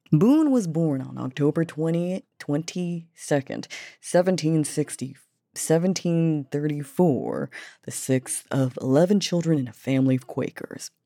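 reading with a light Southern accent. Real, not acted. Reading Daniel Boone's biography aloud, light Southern accent. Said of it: "Why do I have a Southern accent".

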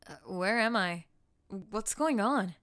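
loud, dazed confusion; confused waking. Acted. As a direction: sound lost and startled.

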